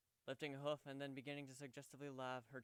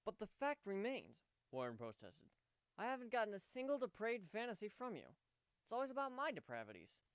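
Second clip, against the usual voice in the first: higher, louder flustered objection; flustered protest; 9 semitones higher, 5 dB louder than usual. Acted. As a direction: protest with embarrassed urgency. Warren protesting, voiced higher.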